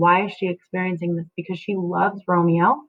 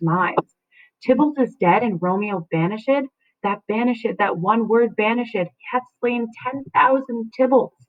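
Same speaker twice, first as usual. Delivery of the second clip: dramatic reading; 3 semitones higher than usual. Acted. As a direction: stretch out ten thousand Tybalts. Juliet's banished speech.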